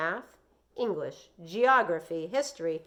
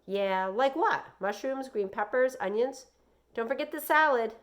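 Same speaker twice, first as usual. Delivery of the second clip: Joey; 5 semitones higher, 5 dB louder than usual. Acted. Joey's child voice.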